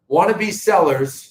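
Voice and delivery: "Wannabe Sellers" slurred with a Boston accent. Real, not acted. Host slipping on the website name, Boston accent. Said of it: "geez, there's my Boston accent".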